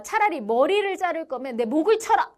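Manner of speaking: mock-heroic outcry; fierce defiance. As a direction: act out defiant people refusing an order. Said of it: "거세게 반발합니다".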